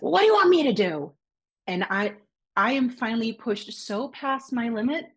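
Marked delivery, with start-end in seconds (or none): 0.0-1.1 higher-pitched mild mock yell; retold yell. Boyfriend fed up with her crying, mock exasperated yell. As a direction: imitate him snapping in exasperation, voice raised in pitch. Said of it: "he just yells and he's like".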